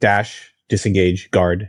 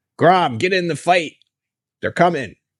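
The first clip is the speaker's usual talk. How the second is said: very high, shrill shouting; 10 semitones higher than usual. Player in a game urging an ally into the fight, shouting at an ally. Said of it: "I'm gonna start shouting at Grom".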